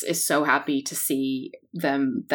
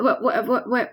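stunned what; 5 semitones higher, 4 dB louder than usual. Acted. Shocked at onyx glass.

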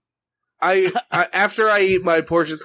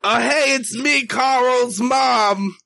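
mom impression; 6 semitones higher, much slower than usual. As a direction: play his mom, high and bright. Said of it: "Can you do an impression of your mother?".

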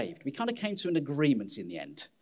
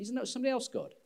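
whiny pleading; 11 semitones higher, much faster than usual. Acted. Reluctant believer pleads with God.

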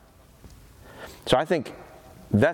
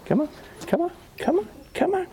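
much higher, bright come on to the dog; high coaxing call. Real, not acted. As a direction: call him in with a sing-song pitch.

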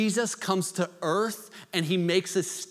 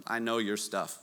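exasperated sigh; 9 semitones lower, 7 dB quieter than usual. Retold or imitated. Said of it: "is like".

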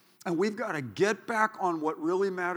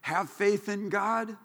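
scripture; 4 semitones higher, slower than usual. Retold or imitated. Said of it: "Mark chapter eleven".

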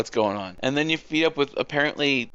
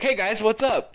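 high-pitched oblivious hello; mock cheery greeting; 11 semitones higher than usual. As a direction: breeze in, imitating a clueless newcomer. Imitates oblivious cheerful arrival at bombing.

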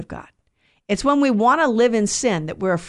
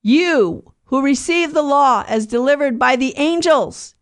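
scripture reading; 3 semitones higher than usual. Acted. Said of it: "what does he say?".

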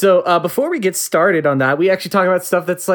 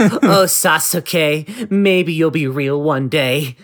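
slow, lovesick anime fan sigh; drawn-out swooning nerd; dreamy weeb voice; much slower than usual. Pretend.

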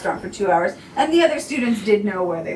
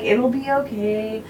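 retold comforting. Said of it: "I had to talk her through that".

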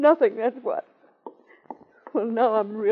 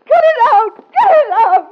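shouting; 12 semitones higher, 9 dB louder, slower than usual. Acted. Rising protest.

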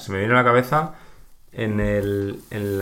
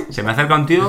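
laughing; 6 semitones higher, 7 dB louder, faster than usual. Real, not acted. Laughing mid story.

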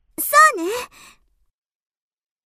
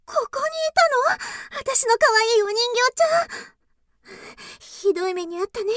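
tender. Acted. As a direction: soothe the doll gently. Girl comforts her found doll.

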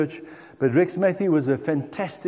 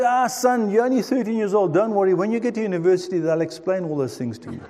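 soothing dad; 4 semitones higher, faster than usual. Retold or imitated. Dad brushing off his son.

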